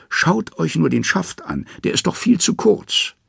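high, wheedling trickster voice; sly Loki. A narrator's reading. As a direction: Loki talking his way out in a high pitch.

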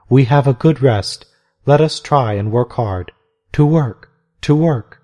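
rally the sisters brightly; cheerful. Acted. Mother Macrina rousing the sisters to work, cheerful. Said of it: "said Mother Macrina cheerfully".

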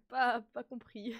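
"pas compris" said slowly through laughter; laughing denial. Real, not acted. Streamer to chat, pretending not to understand, laughing. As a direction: play dumb while laughing.

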